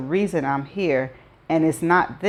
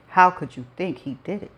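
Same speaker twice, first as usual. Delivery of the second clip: fast, pointed repeat of the question; pointed requote; faster than usual. A narrator's reading. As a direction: throw his question back at her. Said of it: "He asked".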